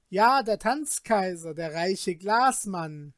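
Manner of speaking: mocking call. Villager mocks Peter.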